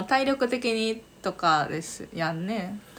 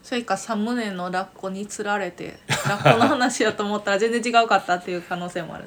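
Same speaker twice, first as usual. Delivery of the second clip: laughing; 4 dB louder than usual. Real, not acted. Joking about the otter thumbnail.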